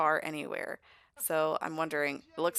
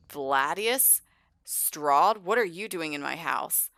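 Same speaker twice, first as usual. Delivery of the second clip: louder, stern mock challenge; mock confrontation; 6 dB louder, slower than usual. Caleb finds Vlad in his house, mock indignant. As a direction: confront an intruder, voice raised a little.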